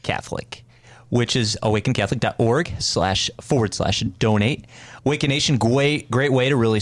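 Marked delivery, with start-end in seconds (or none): 0.0-0.6 whispered aside. Acted. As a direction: breathe the word out. Aside in the ad read.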